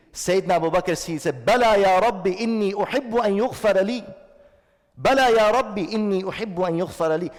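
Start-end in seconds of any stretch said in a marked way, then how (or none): 1.5-7.3 raised, higher voice crying out to God; ringing quoted declaration of assent; fervent assent. Acted. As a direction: answer the Lord at once, emphatically. Acting Abu Bakr's immediate answer to God.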